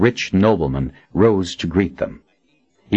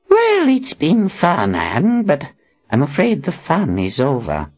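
put-on wry old man; 9 semitones higher than usual. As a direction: shrug it off dryly. Zed wry farewell.

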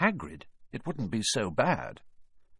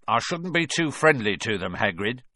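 cold; 2 semitones higher than usual. Acted. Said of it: "said Filch coldly".

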